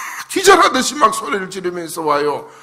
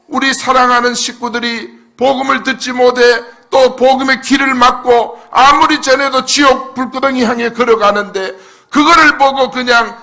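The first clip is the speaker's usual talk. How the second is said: ordinary talk, nothing marked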